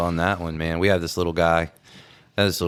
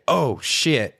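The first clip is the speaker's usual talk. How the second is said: higher, sharp startled oh shit; startled curse; 6 semitones higher than usual. Retold or imitated. Renix on the phone seeing the fire, startled curse. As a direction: blurt it out as the flames appear. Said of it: "then I hear him say".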